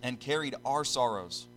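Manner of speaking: solemn, measured scripture reading. Real, not acted. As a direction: read the verse out with deliberate pauses.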